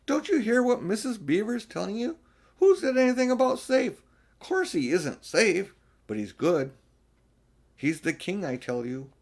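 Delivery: high and loud indignant outburst; indignant beaver. Acted. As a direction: set the children straight.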